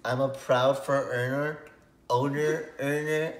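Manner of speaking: high, loud tipsy gushing. Real, not acted. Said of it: "I'm a little bit tipsy".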